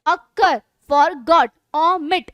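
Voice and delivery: अकर, फॉरगॉट, omit each broken into two beats; double stress. Shown as a demonstration. Teacher listing two-stress words, each syllable stressed. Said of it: "इसमें दो दो stress आ रहे हैं".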